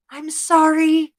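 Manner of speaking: apologetic Sean O'Sullivan. Acted.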